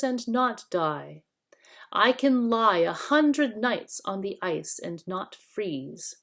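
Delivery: dull gray voice. Acted. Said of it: "A dull gray voice".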